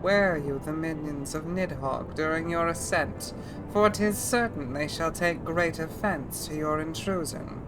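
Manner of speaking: put-on throaty older woman dragon voice. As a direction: ancient dragon speaking with rasp. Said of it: "Feeling the Odile in that dragon voice?".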